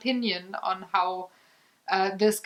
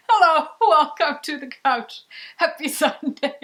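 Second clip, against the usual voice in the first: bright, raised host greeting; cheery show intro; 6 semitones higher, 5 dB louder than usual. Acted. Host greeting viewers at the start of the show. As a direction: welcome the viewers up high and loud.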